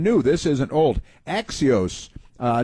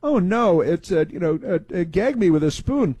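mocking Valley Girl whine, pitched up; 5 semitones higher than usual. Mocking a news anchor in Valley Girl talk. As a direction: ham up a Valley Girl gagging. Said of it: "Valley Girl stuff".

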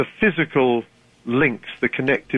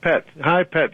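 light Newcastle greeting; Newcastle endearment; 3 semitones higher than usual. Shown as a demonstration. Guest showing how Newcastle greets you, light Newcastle accent. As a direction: say "pet" as Newcastle locals do. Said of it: "everyone's pet there".

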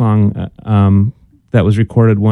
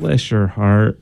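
slow sugary put-down; 4 semitones lower, 3 dB quieter, much slower than usual. Acted. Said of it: "when somebody says".

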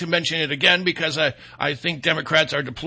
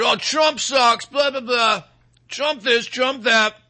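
whiny mocking voice of a grown son living at home, higher; mock angry son; 5 semitones higher, slower than usual. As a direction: sneer the complaints like a sulky thirty-year-old.

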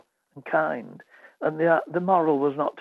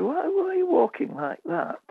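lightly voiced schoolteacher, pitched high; a hint of a fussing teacher. Retelling a schoolboy story, he voices the teacher in a high, lightly put-on voice.

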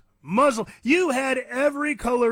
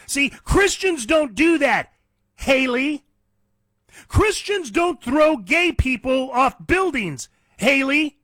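higher, louder angry tirade at Haley; heated rant; 5 semitones higher, 4 dB louder than usual. Real, not acted. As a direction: build the fury line by line. Rant addressed to Haley, escalating.

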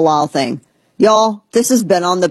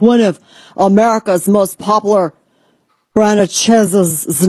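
put-on announcer voice; 3 semitones higher than usual. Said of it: "I don't know why I'm talking like this".

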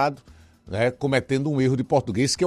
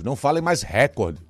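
normal talking voice

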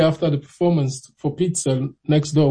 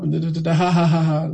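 mocking laugh. Mocking his singing, then laughing.

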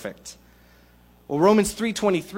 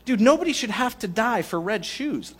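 "nobody" pushed up in a raised, incredulous voice; mock protest; 5 semitones higher than usual. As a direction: play a fed-up friend objecting, voice lifted high. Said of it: "'Cause you're gonna say".

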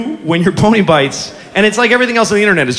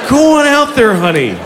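sarcastic encouragement. Retold or imitated. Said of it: "I'm like".

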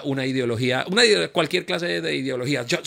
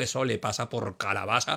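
gloating; 5 dB quieter than usual. Retold or imitated. Mock gloating at someone's misfortune.

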